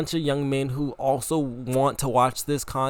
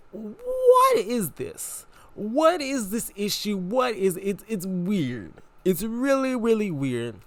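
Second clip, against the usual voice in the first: puzzled inner voice; 3 semitones higher, slower than usual. Retold or imitated. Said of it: "'Cause I'm like".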